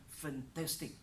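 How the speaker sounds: "Fantastic" with weight on "TAS", gliding down; believable intonation. Shown as a demonstration. Teacher showing learners intonation, believable delivery. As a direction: make "Fantastic" sound believable with stressed middle syllable. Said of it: "that is what we call intonation".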